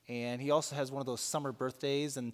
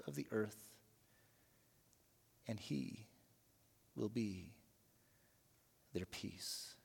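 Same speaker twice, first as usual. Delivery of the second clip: solemn reading with swells and fades; scripture reading. Real, not acted. Pastor reading Micah to the church, solemn and measured. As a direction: read the prophecy with gravity. Reads the scripture passage aloud.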